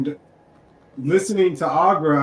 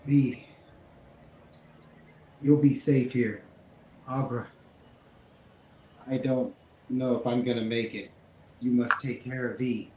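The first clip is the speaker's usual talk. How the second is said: acted pain; 2 semitones lower, 4 dB quieter than usual. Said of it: "dropped to your knees in pain".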